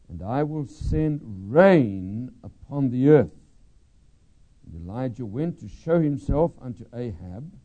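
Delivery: steady, measured Bible reading voice; preacher reading scripture to the congregation, solemn. Real, not acted. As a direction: read the King James text with solemn weight.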